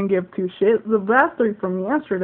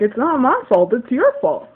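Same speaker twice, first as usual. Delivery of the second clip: insistent blame-shifting, a little louder; retold arguing; 3 semitones higher, 6 dB louder than usual. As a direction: argue back as the other person. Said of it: "we started arguing about whose fault it was".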